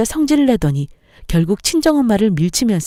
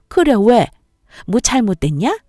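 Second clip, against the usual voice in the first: defiant mother-in-law; 4 semitones higher than usual. Acted. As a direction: bark it back daring her. (퉁명스럽게 따지는 시어머니)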